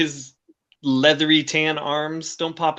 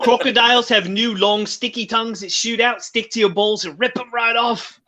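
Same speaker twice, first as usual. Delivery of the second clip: news anchor; 6 semitones higher than usual. Acted. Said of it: "Australian news anchors announcing".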